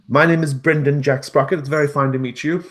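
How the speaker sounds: high, loud, quick gnome, friendly; a chirpy gnome talking to a cat. Acted. Gnome introduces himself.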